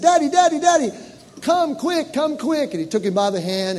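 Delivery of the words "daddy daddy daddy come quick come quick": put-on higher, loud urgent child; excited child's cry; little boy calling. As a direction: call out like a startled four-year-old. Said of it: "He said".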